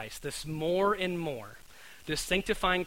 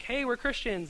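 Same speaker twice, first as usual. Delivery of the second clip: mock shout; 8 semitones higher than usual. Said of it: "shout, like".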